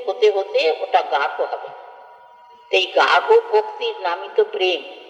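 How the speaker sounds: ordinary talk, nothing marked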